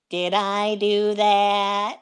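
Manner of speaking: lightly voiced nasal sitcom nerd, slow; a hint of Urkel's catchphrase, drawn out; mild helium Urkel impression; Steve Urkel. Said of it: "There's some Steve Urkel for you".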